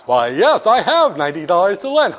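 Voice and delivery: lightly voiced banker, pleased to lend and laughing; jolly banker. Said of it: "You go to the bank".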